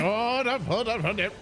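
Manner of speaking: guard shouting stop, cracking up; guard calling halt. Acted. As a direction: stop her at the gangplank. Guard stops Maria.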